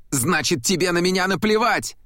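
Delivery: put-on a hurt boy's high yell. A narrator's reading. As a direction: throw it at him, high and accusing. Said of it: "завопил Лука". (Лука кричит отцу: высокий обиженный вопль)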